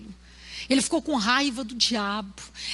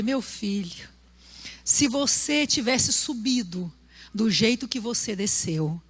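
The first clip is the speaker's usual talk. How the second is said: wise gentle pastor; 3 semitones lower than usual. Retold or imitated. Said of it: "o pastor, muito sábio".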